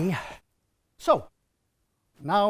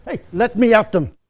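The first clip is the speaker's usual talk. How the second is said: bold warrior boast; 4 semitones higher, 5 dB louder, faster than usual. Acted. Farmer boasts he'll fight Romans.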